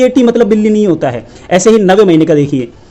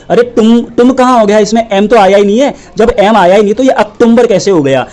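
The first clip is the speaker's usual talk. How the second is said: scolding; 3 semitones higher than usual. Real, not acted. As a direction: tell the teachers off. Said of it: "scolding the teachers".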